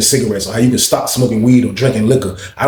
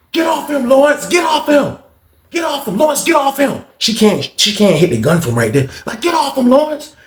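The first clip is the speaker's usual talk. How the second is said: shouted commands; 12 semitones higher than usual. Retold or imitated. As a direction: bark at him to stop. Guard lady yelling orders.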